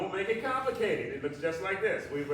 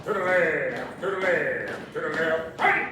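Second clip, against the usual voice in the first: aerobics instructor; 5 dB louder, slower than usual. Acted. Calling steps to music.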